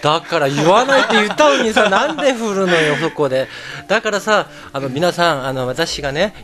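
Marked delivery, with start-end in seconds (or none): 0.0-4.5 loud mock complaint, laughing; playful protest. Real, not acted. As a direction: protest loudly but jokingly. Protesting being made to tell. (わざと文句を言うように)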